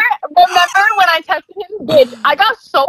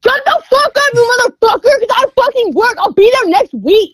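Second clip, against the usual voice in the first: mock angry shout; 7 semitones higher than usual. Real, not acted. Annoyed outburst at friends.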